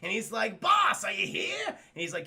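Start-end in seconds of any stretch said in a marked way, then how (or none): 0.6-1.7 high drawn-out call for the boss. Acted. Hobgoblin calls for his absent boss, calling out. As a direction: call out slowly and high, searching.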